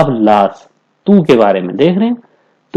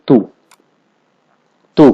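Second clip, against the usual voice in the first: usual speaking voice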